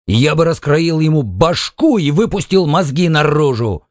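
heated, violent outburst in a storyteller's voice; furious threat. A narrator's reading. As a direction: threaten fiercely with pitch pushed up. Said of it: "крикнул Паркхилл, яростно сверкнув глазами".

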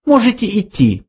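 high offhand dismissal; high mouse voice. A narrator's reading. Benjy dismisses the old man, high mouse voice. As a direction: wave him away.

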